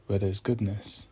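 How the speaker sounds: measured meditation voice with long pauses; unhurried, reflective prompts, phrase by phrase; guided meditation. Acted. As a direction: guide listeners gently, leaving space after each phrase.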